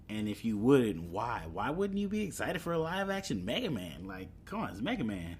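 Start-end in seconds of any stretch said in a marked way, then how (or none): 1.5-5.4 incredulous. Real, not acted. Repeats question in disbelief.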